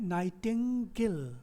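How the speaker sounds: नाइटिंगेल slowly in three beats, nai-ting-gel; syllable by syllable. Shown as a demonstration. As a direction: separate नाइटिंगेल and lengthen the final gel. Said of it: "दो syllable हो गए".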